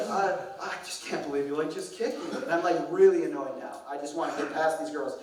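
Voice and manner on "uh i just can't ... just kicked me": mock SoCal teen, lightly voiced; valley girl drama. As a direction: overplay the hurt like a teen girl. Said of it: "She's like".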